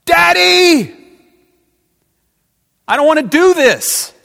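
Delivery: screaming high and loud, desperate; anguished cry. Acted. Jesus crying out to his father in the dark, screamed plea. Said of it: "crying out into the dark".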